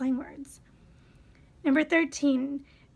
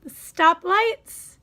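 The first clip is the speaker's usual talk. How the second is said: incredulous; 3 semitones higher, 6 dB louder, much slower than usual. Real, not acted. Incredulous correction, slow.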